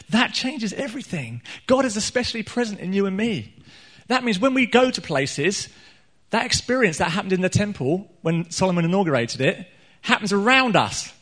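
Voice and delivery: high-pitched, rousing sermon delivery; lifted, emphatic pulpit voice; impassioned preaching. Real, not acted. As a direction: preach it with rising conviction.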